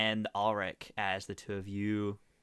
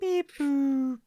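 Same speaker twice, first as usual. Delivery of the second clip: high robot beep; 13 semitones higher, 4 dB louder than usual. Acted. GM voices robot Corgi.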